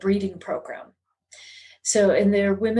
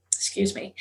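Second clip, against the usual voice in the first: choked up; 5 dB quieter than usual. Real, not acted. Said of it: "forgive me if I get emotional".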